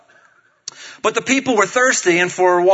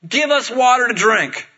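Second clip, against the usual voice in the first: higher-pitched demanding reading; quarrelsome demand; 6 semitones higher, 3 dB louder than usual. Acted. Thirsty people quarrel with Moses, quarrelsome demand. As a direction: read it as a people picking a quarrel. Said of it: "they quarreled with Moses and said".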